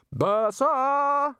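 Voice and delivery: high, loud yell across the beach. Acted. Ridcully yelling to the bursar in the surf, loud high shout. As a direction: call out his name at full volume. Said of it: "Ridcully yelled".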